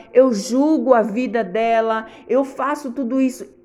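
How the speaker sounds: forceful honest prayer; firm confession. Shown as a demonstration. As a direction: confess plainly and firmly to God. Models confessing unforgiveness.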